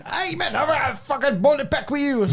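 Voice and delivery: high-pitched mock accosting; retold confrontation. Quarry manager collaring a podcast host, high mock confrontation.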